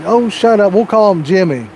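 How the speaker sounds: high, dismissive mock mom; mom brushing him off. Mom dismissing son's bean complaint, high mock scold. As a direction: wave him off like an impatient mother.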